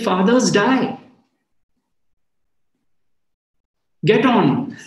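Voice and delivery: a hint of a stern master cutting through grief; emphatic. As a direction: shake him out of it, firmly. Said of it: "Ramesh was really so emphatic".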